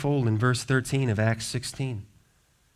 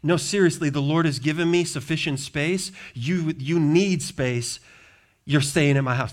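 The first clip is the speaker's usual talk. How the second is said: bossy Lydia. Retold or imitated. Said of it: "This is how she talks to the apostle".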